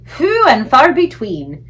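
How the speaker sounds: loud, slow musing; loud slow BFG. A narrator's reading. BFG punning on phew to Sophie, loud and slow. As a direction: draw the words out.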